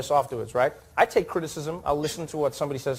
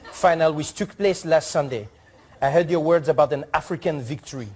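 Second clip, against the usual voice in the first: reading the ambassador's letter; 3 semitones higher than usual. Retold or imitated. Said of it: "read it how I hope he wrote it".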